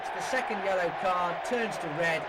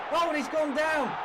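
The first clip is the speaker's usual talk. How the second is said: a much higher, louder cry of surprise; sudden shout; 8 semitones higher, 5 dB louder than usual. Real, not acted. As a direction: caught off guard by the fall. Player fouled in the box.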